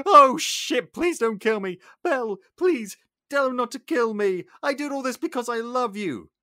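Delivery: high, loud, desperate pleading; villain dangled over a roof, shrieking pleas; panicked begging. Retold or imitated. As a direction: beg for your life in panic. Gaston begs for life.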